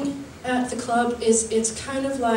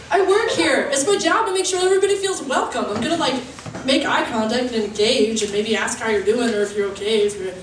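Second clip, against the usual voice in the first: prim. Retold or imitated. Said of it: "And I was like".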